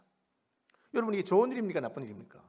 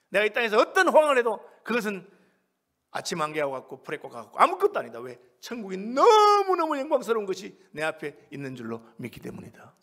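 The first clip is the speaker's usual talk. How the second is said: swelling pulpit declaration; emphatic sermon voice; fervent preaching; 3 semitones higher, 10 dB louder than usual. Real, not acted. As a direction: proclaim it, stretching the intensifier. Preaches at full force.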